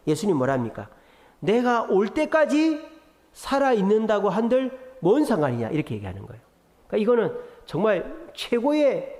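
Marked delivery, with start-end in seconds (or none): 1.4-5.7 Jesus sternly rebuking Peter. Retold or imitated. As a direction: scold Peter, drawing out each word. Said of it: "호통을 치시는 거예요".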